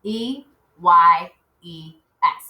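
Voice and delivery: slow letter by letter spelling; spelling aloud. Shown as a demonstration. Teacher spelling eyes together with the class, slowly. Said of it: "Let's spell it together".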